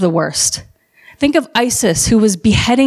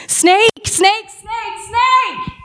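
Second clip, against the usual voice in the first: high, frantic cry of fear; panicked screaming; 12 semitones higher, much slower than usual. Retold or imitated. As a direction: shriek the warning in terror. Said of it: "the men just started screaming".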